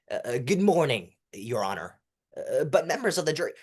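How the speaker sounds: hesitant um-uh before "Good morning"; fake stutter. Shown as a demonstration. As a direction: stall with fake fillers before speaking. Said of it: "develops a fake stutter".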